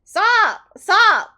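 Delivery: high, loud, tearful protest; crying while pleading to stop; teary outburst, voice up high. Real, not acted. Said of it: "Oh, I'm still crying".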